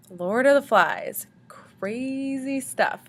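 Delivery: hushed, slow spooky whisper; dramatic whisper. Acted. Teacher teasing the class with a slow whisper. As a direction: breathe the title like a secret.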